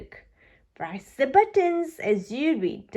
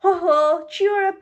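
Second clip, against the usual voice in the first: cheery; 8 semitones higher, 5 dB louder than usual. A narrator's reading. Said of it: "smiles Daddy Pig".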